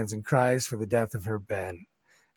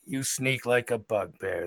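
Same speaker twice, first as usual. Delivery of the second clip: bugbear voice; 4 dB quieter than usual. Acted. Bugbear Joe continues.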